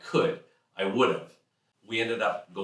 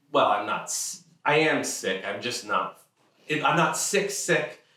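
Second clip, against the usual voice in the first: flustered; 4 semitones higher, 4 dB louder than usual. Retold or imitated. Narrator's own flustered reply.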